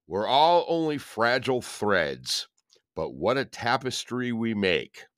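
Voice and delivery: measured, reflective reading voice; reading aloud. Acted. Reads daily recovery meditation aloud.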